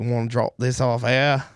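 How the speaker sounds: put-on barely-there Australian accent on the receptionist; a faint try at Australian; Scientology receptionist, weak Australian impression. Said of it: "It's not any better".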